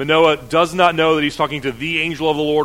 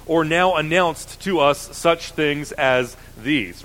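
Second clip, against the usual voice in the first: raised, quicker Bible reading voice; lifted public reading of scripture. Acted. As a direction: read the passage out to the congregation. Reads scripture passage aloud.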